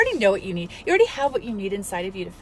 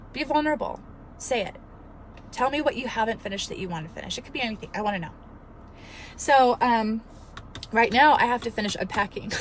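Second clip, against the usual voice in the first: ordinary talk, nothing marked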